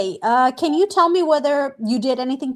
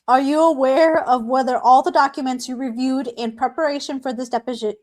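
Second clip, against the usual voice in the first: lip sticking to braces. Real, not acted. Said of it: "my lip sticks to my braces".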